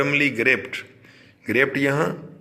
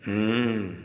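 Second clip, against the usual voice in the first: thoughtful hmm; 2 semitones lower, 5 dB quieter, much slower than usual. Shown as a demonstration. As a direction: hum hmm softly as if weighing the boy up. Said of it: "ये जब आप ऐसे कहते हैं ना".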